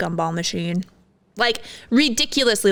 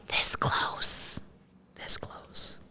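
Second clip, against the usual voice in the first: breathy whispered clue, no voice at all; S2 whispering the game clue to the next player, hushed whisper; 11 dB quieter, much slower than usual. Shown as a demonstration. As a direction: whisper it like passing a secret down the line.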